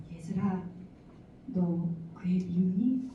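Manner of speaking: soft, slow, tender question; gentle mother. Retold or imitated. Mother comforting her daughter on her lap, soft and slow.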